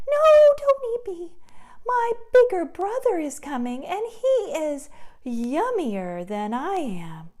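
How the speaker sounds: high, hurried pleading voice; pleading little goat. Acted. Little goat pointing the troll to his bigger brother. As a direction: talk your way out fast.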